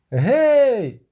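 loud, high hail from above; shouted hey. A narrator's reading. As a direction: call down the cliff. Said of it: "гукнув Любисток". (гучний оклик згори)

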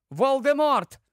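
high exclamation of realisation; exclaiming. A narrator's reading. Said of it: "Албус Рон вигукує".

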